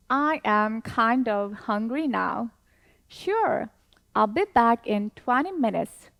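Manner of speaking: slow, clear role reading of both parts; dialogue read-along. Shown as a demonstration. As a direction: read it slowly for students to follow. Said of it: "한 번 더 우리 같이 읽어보도록 하겠습니다". (학생들과 같이 천천히 읽는 대화문)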